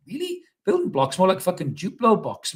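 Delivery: a squeaky high "Really?" then scoffing; mock the pundit's excuse; incredulous sneer at the rebuild talk; sarcastic disbelief. Sarcastic retort.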